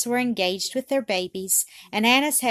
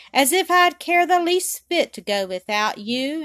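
half indignant; 6 semitones higher, 5 dB louder than usual. A narrator's reading. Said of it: "half indignantly".

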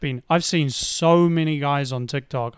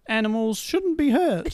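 mock serious; 9 semitones higher than usual. Mocking hot takes.

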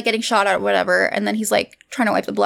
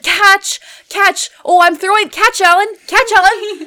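high-pitched mock exasperated retort; imitated bickering; 8 semitones higher, 4 dB louder than usual. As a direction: argue it back, pitched up and insistent. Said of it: "bickering was so good".

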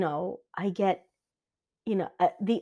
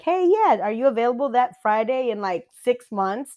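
perky mom friend; 6 dB louder than usual. Retold or imitated. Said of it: "they're like".

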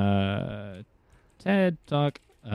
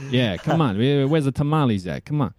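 Italian New Yorker; 2 semitones higher than usual. Shown as a demonstration. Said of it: "Sounds like an Italian New Yorker".

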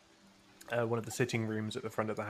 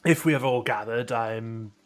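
brisk, bright scholar announcing; a bookish man eager to begin; scholarly NPC voice; 4 dB louder than usual. Acted.

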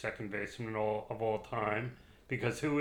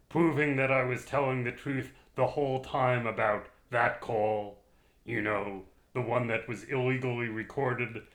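put-on slow, loud old-time orator; Warren Harding voice; 5 dB louder than usual. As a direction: declaim it slowly like a 1920s president. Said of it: "read it slowly and in the voice of President Warren Harding".

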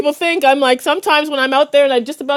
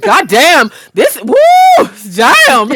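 disgusted exclamation; 4 dB louder, much slower than usual. Retold or imitated. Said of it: "You're like".

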